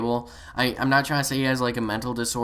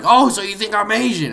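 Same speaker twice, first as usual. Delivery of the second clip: high, louder mock indignation; mock offended player; 6 semitones higher, 7 dB louder than usual. Storyteller imitating a player assuming insult, mock indignation. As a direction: imitate someone taking offence.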